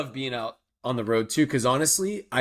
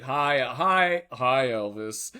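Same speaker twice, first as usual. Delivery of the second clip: out-of-sync group greeting; slower than usual. Retold or imitated. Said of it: "it was like".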